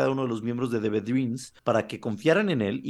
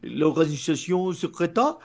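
higher, slow, worried questions; high anxious follower voice; 5 semitones higher, slower than usual. Retold or imitated. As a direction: play a jittery believer.

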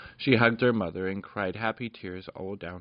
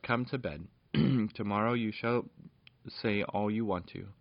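tender mother. Acted. Mother puts tired child to bed.

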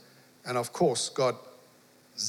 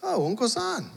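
village ladies; 8 semitones higher, slower than usual. Retold or imitated. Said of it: "they said".

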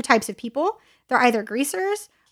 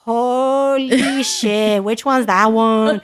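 shocked onlooker; 3 dB louder, much slower than usual. Retold or imitated. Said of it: "they're like".

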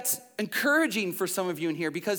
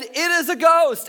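mild mock fright; 9 semitones higher, 7 dB louder than usual. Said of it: "they were terrified".

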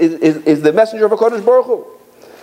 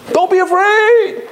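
high, slow, sing-song mock comfort; drawn out like a patronizing pat on the head; hollow reassurance; 3 dB louder, much slower than usual. Mocking someone telling a frightened person not to fear.

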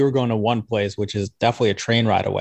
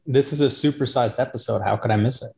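echoey, like talking from a bathroom; boomy room sound, mic far away. Real, not acted. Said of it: "you still sound like you're in a bathroom".

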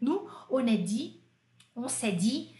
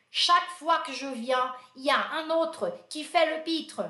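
mock scolding supervisor; 4 semitones higher than usual. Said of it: "Aí o Bouillon falou assim".

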